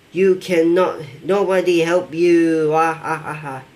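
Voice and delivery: lightly acted villain. Killer boss answering the worker's plea, mildly villainous taunt. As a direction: taunt the victim, then a hammed-up "ah ah ah".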